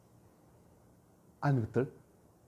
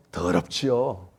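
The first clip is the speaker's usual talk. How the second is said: 더럽지요 said low and falling in Gyeongsang dialect; 7 semitones lower, much slower than usual. Shown as a demonstration. Preacher showing the word in Gyeongsang dialect, low and falling. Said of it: "경상말로".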